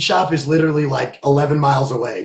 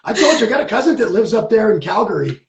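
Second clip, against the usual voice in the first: laughing; 4 semitones higher than usual. Real, not acted. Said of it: "I love it".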